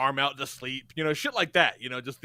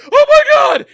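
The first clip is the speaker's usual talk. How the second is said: much higher, much louder panicked cry; freaking out; 19 dB louder than usual. Retold or imitated. Boyfriend seeing his own blood, panicked high loud cry. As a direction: shriek it in sudden panic. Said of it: "he's freaking out".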